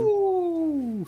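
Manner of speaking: high, gleeful cheer; excited whoop. Real, not acted. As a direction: whoop it up with delight. Cheering a nine out of ten.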